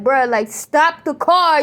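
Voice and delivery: slow, steady, composed plea; calm but firm. Retold or imitated. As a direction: keep it together, firm. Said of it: "I wasn't screaming, like, crying".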